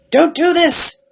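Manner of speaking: half-acted alarm, pushing back hard; mock frantic plea. House begging the tardis to stop, retold as a mock frantic plea. Retelling House's pleading cry.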